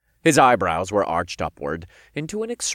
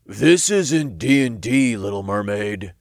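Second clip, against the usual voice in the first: imp voice. A narrator's reading. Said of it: "Todd reminded her".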